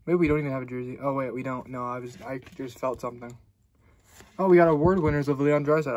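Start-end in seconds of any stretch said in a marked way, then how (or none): 4.4-6.0 excited. Real, not acted. Reveals an award winners card.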